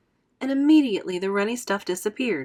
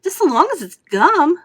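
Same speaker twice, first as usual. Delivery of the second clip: put-on high, loud girl's shout; 9 semitones higher, 9 dB louder than usual. Violet to everyone, shouting high and loud. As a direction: shout it, only caring about gum. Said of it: "shouted Violet Beauregard".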